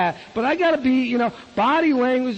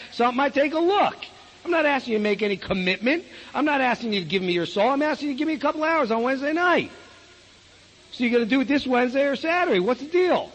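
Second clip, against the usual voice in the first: exasperated arm-twisting of a friend, higher pitch; pushy with a buddy; 4 semitones higher than usual. Acted. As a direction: lean on your pal, mock-indignant. Pressuring a friend to attend.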